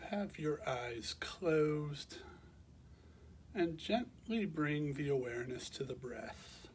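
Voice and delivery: calm, measured meditation guidance with long pauses; guided meditation. Real, not acted. Teacher guiding listeners to bring awareness to the breath, calm meditation voice. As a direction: guide them gently into rest, leaving space between phrases.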